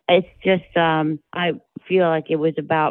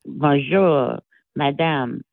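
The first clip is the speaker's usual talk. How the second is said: dragged-out French; much slower than usual. Retold or imitated. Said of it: "it was always dragged out".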